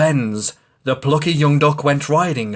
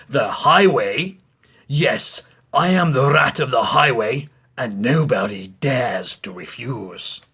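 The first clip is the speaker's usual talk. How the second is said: greedy rat. Acted.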